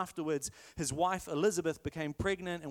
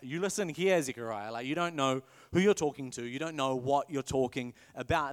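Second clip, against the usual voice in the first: sassy angel; 6 semitones lower than usual. Retold or imitated. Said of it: "The angel's, like, a little bit sassy".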